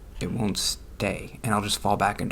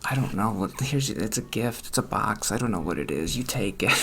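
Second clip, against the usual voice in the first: hesitant awkward. Retold or imitated. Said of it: "I was like".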